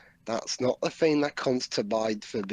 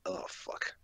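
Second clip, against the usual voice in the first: breathy hushed swear; barely voiced oh no; whispered curse; 12 dB quieter than usual. Real, not acted.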